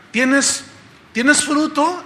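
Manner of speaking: the Lord questioning. Acted. The Lord asks the disciple about fruit, questioning loudly. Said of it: "que el Señor diga".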